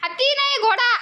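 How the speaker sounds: squeaky high correction, loud on घोडा. Real, not acted. Mother telling toddler son it's a horse, high sing-song.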